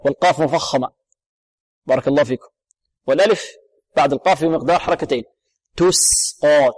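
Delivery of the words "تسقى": تسقى with thin س and dark "qaw"; thin the س, darken the ق in تسقى; light seen, heavy qaf. Shown as a demonstration. Teacher models the word, light seen, heavy qaf. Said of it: "تقيق السين وتفخيم القاف".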